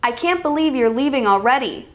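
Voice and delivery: swooping intonation through "leaving already"; falling-rising intonation. Shown as a demonstration. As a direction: pitch swells mid-sentence, then bends on "already". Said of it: "That's falling rising".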